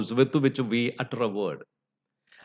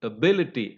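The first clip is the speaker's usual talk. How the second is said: Ability with stressed BIL; stress on the root. Shown as a demonstration. Teacher returns to earlier example, Ability stressed on BIL. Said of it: "stress goes on the root".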